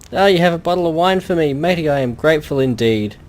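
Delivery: a hint of a grumpy drunk sailor; mild old seadog calling people matey; lightly voiced old fisherman. Old fisherman to the adventurer, a lightly voiced drunk sailor. Jed thanks for the wine.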